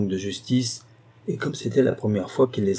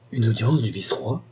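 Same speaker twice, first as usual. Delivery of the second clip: stupefied. Acted. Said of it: "au comble de la stupeur".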